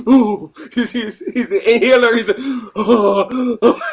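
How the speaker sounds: imitating someone gasping for air; mock gasping. Host imitating a winded friend reaching for an inhaler, mock gasping.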